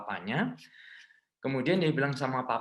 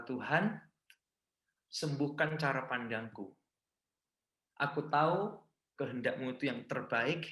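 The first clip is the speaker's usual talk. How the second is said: soft, hushed surrender; humble prayer; 2 semitones lower, 5 dB quieter than usual. Acted. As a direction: pray it quietly, fading to a whisper. Quiet surrendering prayer to God. (doa lirih penuh penyerahan)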